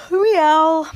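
loud, high meow; cat yowl. A narrator's reading. General Washington about to swat Mercy, yowling loudly. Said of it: "said General Washington".

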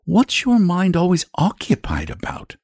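put-on high-pitched boy asking; boy's voice. A narrator's reading. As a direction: ask it as a curious young boy. Curious boy questions the dragon.

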